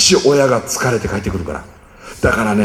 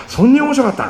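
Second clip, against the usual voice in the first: higher, delighted question; curious child; 10 semitones higher, faster than usual. Pretend. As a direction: ask as an amazed kid. Kind fragt interessiert nach.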